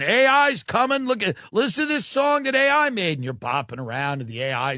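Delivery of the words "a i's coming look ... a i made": high-pitched mock DJ announcement; announcing executive DJ. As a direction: lightly play an executive hyping his song. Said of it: "he makes an announcement and he goes".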